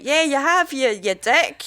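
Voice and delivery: high mock scolding; exasperated son. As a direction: act out a son fed up with his father. Aged son scolding his dad.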